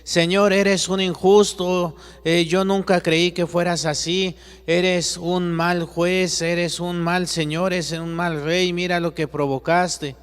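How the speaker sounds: high, loud, furious accusation; very angry. Acted. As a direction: rage at the Lord for being unjust. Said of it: "pero muy enojado, muy, muy enojado". (Juan le reclama a Jesús, muy enojado, alto y fuerte)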